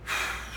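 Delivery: acted deep breath to gather courage; imitated nervous breath before a plunge; bracing breath. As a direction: breathe as if steeling yourself. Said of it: "sucks up all of his courage".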